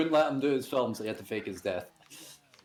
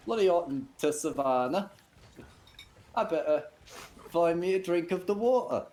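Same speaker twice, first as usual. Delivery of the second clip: warthog Len voice; 5 semitones higher than usual. Acted. Warthog character continues.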